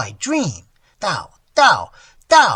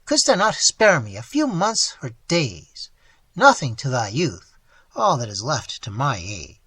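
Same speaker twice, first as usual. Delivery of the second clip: put-on old man lamenting to the boy he raised; anguished plea; 3 semitones higher, 4 dB louder than usual. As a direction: plead with wounded love. Old man's anguished plea continues.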